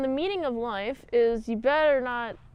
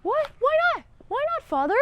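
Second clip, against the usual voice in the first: whiny daughter; 12 semitones higher than usual. Retold or imitated. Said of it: "the daughter comes in and she's like".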